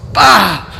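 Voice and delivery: loud contemptuous bark; scornful bah. A narrator's reading. Grimlin dismisses black magic to Conrad, loud scornful bah. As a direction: blast it out with disgust. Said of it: "he cried".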